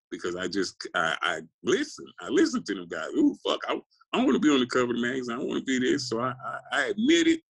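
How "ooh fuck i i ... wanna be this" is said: mocking eager younger self. Mocking his younger ambitious self.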